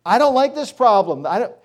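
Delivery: high, loud whining at God; whiny complainer. Pretend. Believer whining to God in a high loud complaining voice. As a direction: whine like a spoiled child refusing the deal.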